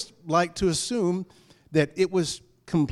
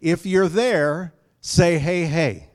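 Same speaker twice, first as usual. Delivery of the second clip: rallying call and response; 5 dB louder, slower than usual. Retold or imitated. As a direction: call out to the congregation. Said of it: "And so I always say".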